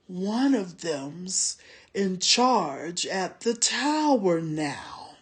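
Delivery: low, soft menacing hiss. A narrator's reading. Soldier hissing a threat to the tracker. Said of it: "lowering his voice to a hiss".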